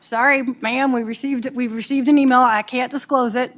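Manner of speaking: lightly put-on border officer accent, sounding Southern; a hint of a Southern-tinged Canadian border accent. Border officer refusing the lawyer, in a mock Southern-sounding accent. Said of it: "Is that the Canadian border accent?".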